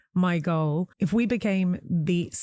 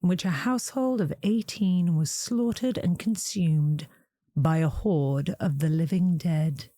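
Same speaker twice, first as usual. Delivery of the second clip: gothic reading; 2 semitones lower than usual. Acted. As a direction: read it like Vincent Price. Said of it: "that was an incredible reading".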